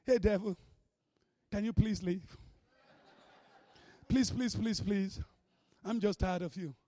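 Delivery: soft, low, meek begging; mock polite pleading. Timid believer asking the devil to leave, mock polite. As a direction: plead feebly, far too politely. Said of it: "You think the devil leave politely".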